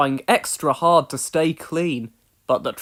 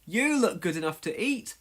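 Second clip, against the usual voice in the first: amused; 3 semitones higher than usual. Acted. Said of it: "Thomas hooted".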